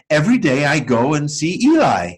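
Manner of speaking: Lucia's voice. Acted.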